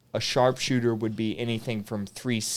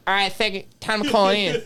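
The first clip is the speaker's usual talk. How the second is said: higher, barking drill sergeant call to the platoon; drill sergeant impression; 8 semitones higher, faster than usual. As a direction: bark the bedtime order like a sergeant. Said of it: "that I could impersonate pretty well".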